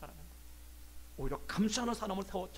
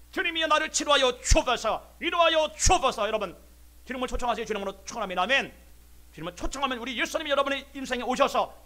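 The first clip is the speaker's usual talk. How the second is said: full-force preaching; 3 semitones higher, 10 dB louder than usual. Real, not acted. Preacher calls congregation to invite Jesus in, impassioned loud preaching. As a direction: proclaim and pray it out over the congregation.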